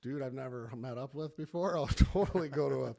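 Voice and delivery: hammed-up, loud sarcastic yes; mock eager agreement. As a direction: pretend to be thrilled by the invitation. Acted sarcastic eager reply to invitation.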